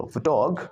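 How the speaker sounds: फोटोग as fuh-TOG; break after G. Shown as a demonstration. Teacher models first chunk, फोटोग as fuh-TOG. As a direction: weaken the first vowel of फोटोग, land on TOG. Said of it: "जी तक बोलो".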